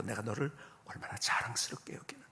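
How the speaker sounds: low, hushed retold tearful pride; tearful mother. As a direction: lightly imitate a crying mother reassuring her child. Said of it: "우시면서".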